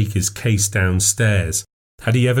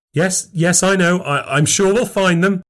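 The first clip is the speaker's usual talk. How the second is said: forced upbeat; 10 semitones higher than usual. A narrator's reading. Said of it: "as upbeat as I could manage".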